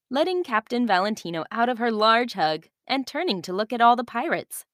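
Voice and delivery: put-on calm storyteller reading to children; story narration. A narrator's reading. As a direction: tell it like a bedtime story. Narration continues.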